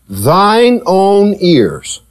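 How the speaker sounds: "thine own" stretched very slowly; stress on thine. Shown as a demonstration. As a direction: lean long on "thine" before "own ears". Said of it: "underline the word thine".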